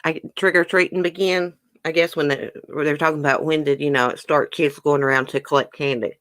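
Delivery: talking through a mouthful of brownie; chewing while talking; mouth full. Real, not acted. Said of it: "I feel like Amberlynn Reed with a mouthful of brownie".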